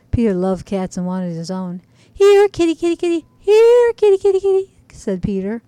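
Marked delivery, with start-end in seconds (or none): 2.1-4.8 calling out. Acted. Boy calling the cat.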